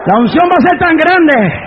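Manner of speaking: declaimed phrases with long pauses; forceful preaching. Acted. Preacher promising the church that rebels will join, forceful preaching. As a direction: proclaim each phrase and let it ring.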